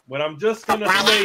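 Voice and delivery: choppy glitching connection, voice breaking up; robotic breaking audio. Real, not acted. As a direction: sound like a bad robotic line. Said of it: "You sound like a robot".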